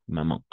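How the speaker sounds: "maman" with the last vowel through the nose; nasal final vowel. Shown as a demonstration. Teacher showing learners the sound, "maman" with a nasal ending. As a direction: say "maman" as ma-mahn, without closing on n. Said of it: "con nasal".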